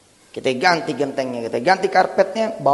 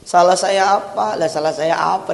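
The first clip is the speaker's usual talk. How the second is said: mild mock lament; imitated weeping plea; 3 semitones higher than usual. Preacher voices a crying couple to God, mild lament. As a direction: plead as if tearful, lightly acted. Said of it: "Dia menangis nih".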